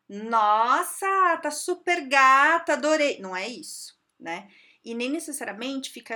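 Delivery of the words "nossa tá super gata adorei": loud, slow, leering come-on; flirty catcall. Retold or imitated. Imitating a coworker flirting about someone's looks, loud and leering. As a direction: hit on her, drawn out. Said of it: "não é pra você chegar na pessoa e falar".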